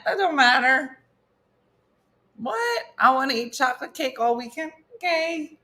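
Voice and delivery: mock carefree teen, rising and breezy; lightly voiced care-free kid, shrugging it off. Parent imitating her carefree kids, lightly mocking. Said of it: "just be like".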